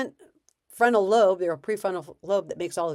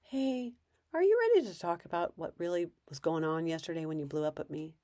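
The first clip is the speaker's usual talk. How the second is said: gentle check-in; 4 dB quieter than usual. Shown as a demonstration. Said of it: "ask if they're ready".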